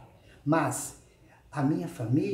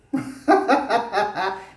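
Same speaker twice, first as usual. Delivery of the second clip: mocking laugh; 5 semitones higher, 6 dB louder than usual. Real, not acted. Laughs at own invite.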